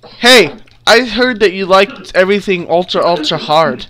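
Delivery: mock the trainee cheekily; taunting suspect. Suspect mocking the trainee who wanted ultra hard, loud.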